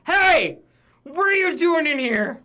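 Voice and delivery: loud gruff monster yelling; bugbear shout. Acted. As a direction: bark it out like a brute.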